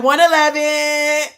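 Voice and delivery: slow, drawn-out words through laughter; laughing quote. Retold or imitated. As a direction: quote him while cracking up. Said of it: "Look, he was like".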